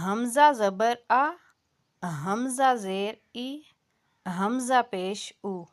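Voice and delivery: حمزہ زبر آ said gently with a soft vowel, no glottal jolt; نرمی سے حمزہ; soft hamza vowels. Shown as a demonstration. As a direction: ease the vowel out of حمزہ smoothly. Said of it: "نرمی سے اس کو آپ نے ختم کر دیا".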